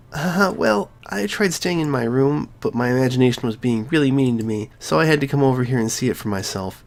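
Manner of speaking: a lightly voiced sheepish girl; Sayori voice. Sayori explaining why she came, lightly girlish.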